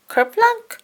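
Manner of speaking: splash word. A narrator's reading. Acorn drops into lake.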